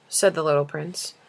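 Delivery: plain reading voice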